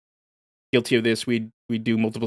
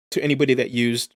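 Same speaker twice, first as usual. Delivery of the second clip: words pushed out around a burp. Real, not acted. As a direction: talk through a small burp. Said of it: "excuse me, I'm burping".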